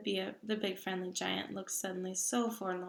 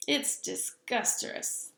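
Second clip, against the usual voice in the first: gurgling; 3 semitones higher, slower than usual. Acted. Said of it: "the B F G gurgled".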